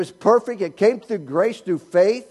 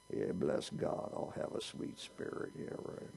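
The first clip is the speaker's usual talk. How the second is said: sarcastic aside; 19 dB quieter than usual. Retold or imitated. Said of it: "mocking congregant reply".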